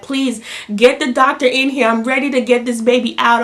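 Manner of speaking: retold urgent call for the doctor; urgent plea. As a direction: beg for the doctor, pushed to the limit. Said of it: "I'm like".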